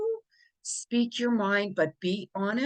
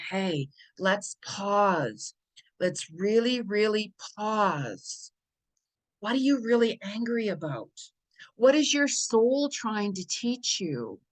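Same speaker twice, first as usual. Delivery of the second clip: soul's gentle voice. Retold or imitated. The soul pausing an upset person, slow and gentle. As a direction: coax yourself to stop and reflect, slowly. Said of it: "Your soul is saying".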